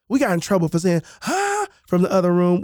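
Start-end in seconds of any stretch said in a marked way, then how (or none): 1.2-1.7 put-on kid's careless huh. Kid answering from another room.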